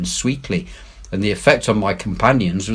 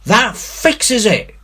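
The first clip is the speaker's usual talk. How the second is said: gasped line; 14 semitones higher, 5 dB louder, slower than usual. A narrator's reading. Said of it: "gasped one".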